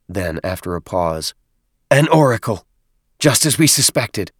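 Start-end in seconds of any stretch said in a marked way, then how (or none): 1.9-4.3 higher squeaky voice; squeaky little voice. Acted. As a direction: squeak it out eagerly. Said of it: "Dadab's muffled voice squeaked".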